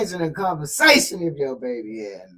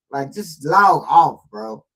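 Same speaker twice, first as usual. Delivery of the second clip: louder, slow exasperated plea; 6 dB louder, slower than usual. Real, not acted. Host telling the mama to quit the internet, exasperated. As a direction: drag it out, fed up.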